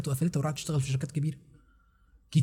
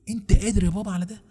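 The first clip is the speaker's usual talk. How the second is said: teasing challenge; 7 semitones higher, 3 dB louder than usual. Real, not acted. Challenging the listener.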